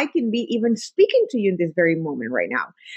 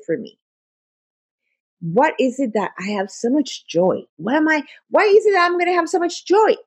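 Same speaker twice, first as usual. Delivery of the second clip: empowering question; 5 semitones higher than usual. Shown as a demonstration. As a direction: ask it as if you expect a great day. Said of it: "an empowering question would be something like".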